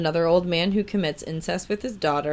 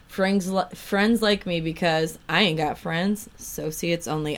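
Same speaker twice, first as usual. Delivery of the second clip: put-on southern accent. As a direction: read his words with a hint of a Southern accent. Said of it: "I keep giving him a southern accent".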